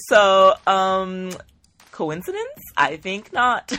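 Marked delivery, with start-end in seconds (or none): 1.9-3.8 high, then slow, theatrical I think not; mock dramatic. Telling viewers about the dog named Leo, with mock suspense. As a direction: play it like a detective's big reveal.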